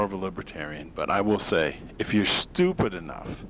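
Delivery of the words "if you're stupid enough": emphasis on "stupid"; stress on stupid. Real, not acted. Host scolding gullible voters, stress on "stupid". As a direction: lean hard on the word "stupid". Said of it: "I emphasize the word stupid in capital letters".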